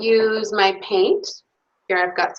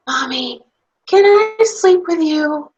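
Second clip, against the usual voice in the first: put-on toddler whisper; 7 semitones higher, 4 dB louder than usual. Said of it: "one small toddler whisper".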